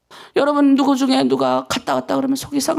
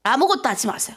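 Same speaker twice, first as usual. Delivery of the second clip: normal talking voice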